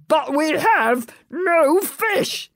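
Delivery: slow, firm, pleasant voice; firm but pleasant. Acted. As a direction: dominate it calmly. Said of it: "firm but pleasant".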